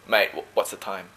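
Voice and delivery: a light Aussie mate tone with friends; easy Australian accent, mate up front. Shown as a demonstration. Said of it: "Or with my friends, I'll say".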